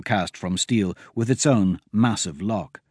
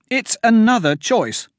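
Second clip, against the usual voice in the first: alarmed warning; 10 semitones higher, 4 dB louder than usual. Acted. Myra warns of a trap.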